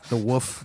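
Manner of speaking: "woof" in place of wolf, L dropped; Kansas pronunciation. Shown as a demonstration. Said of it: "that's a Kansas accent as well".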